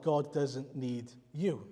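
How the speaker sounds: ordinary talk, nothing marked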